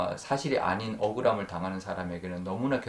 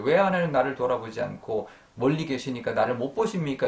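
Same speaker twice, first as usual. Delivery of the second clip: higher-pitched imitated complaint; mild retold lament; 4 semitones higher, 4 dB louder than usual. Preacher as Job asking God why, mildly lamenting. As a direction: lightly voice a questioning lament. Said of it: "이렇게 한탄하는 말인데".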